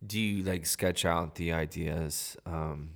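hushed, secretive asking; whispering. Real, not acted. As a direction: keep it low like someone might overhear. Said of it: "Why are you whispering like that?".

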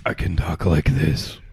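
low bleating satyr voice; goat man voice. Shown as a demonstration. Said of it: "try to do a goat man voice".

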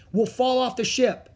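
high, urgent warning; shouted warning. A narrator's reading. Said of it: "shouted Jack".

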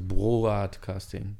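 "Broadcasting" said slowly, syllable by syllable; stretched, explanatory "Broadcasting"; drawn-out pronunciation. Shown as a demonstration. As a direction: spell out "Broadcasting" slowly for the listener. Explains the word just questioned.

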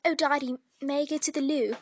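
lightly put-on proper British; British accent. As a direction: play at being properly British. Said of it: "I wanted to sound more British".

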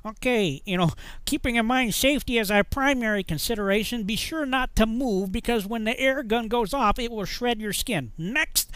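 high-pitched imitation of a man with a harelip; harelip speech. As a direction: garble the safety briefing in a funny high voice. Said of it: "He talked kind of funny".

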